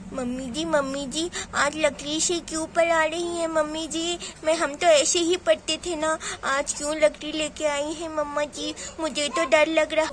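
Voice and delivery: lightly voiced childish lisp; nervous little girl. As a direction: fret timidly like a small child. Child afraid of the stick. (हल्की तुतलाती, डरी बच्ची)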